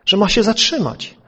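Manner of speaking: firm, pressing retold question; lightly acted judge demanding an answer; insistent judge. (stanowcze, dobitne pytanie sędziego)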